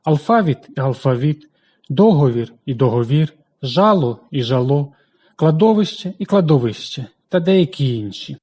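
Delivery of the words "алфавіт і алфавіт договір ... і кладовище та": Алфавіт і алфавіт, договір і договір, жало і жало, кладовище і кладовище with the stress moved in each pair; подвійний наголос; two allowed stresses. Shown as a demonstration. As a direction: shift the stress between the two forms. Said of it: "з двома наголосами".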